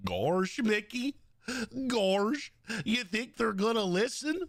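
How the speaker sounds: lightly voiced goofy drawl on gorsh; a hint of dopey cartoon dog; Goofy impression. Goofy asking Mickey if they will listen, lightly dopey.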